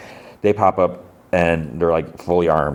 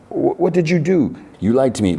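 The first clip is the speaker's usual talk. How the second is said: upset accusation; 9 semitones higher than usual. Retold or imitated. Boy accuses friend of lying, high acted upset. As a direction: start very high and accuse in mock distress.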